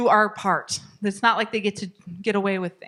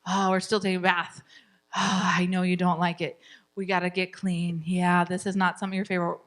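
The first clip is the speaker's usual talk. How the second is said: lower, soothing but firm; calm the child while holding the line; empathetic parent; 3 semitones lower than usual. Shown as a demonstration. Parent soothing frustrated child, calm and lower. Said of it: "it's us who's still connecting".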